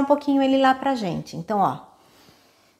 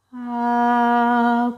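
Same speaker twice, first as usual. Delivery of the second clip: supported held note. Shown as a demonstration. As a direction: sing the ah gently, holding the air in. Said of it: "porque eu tô retendo isso".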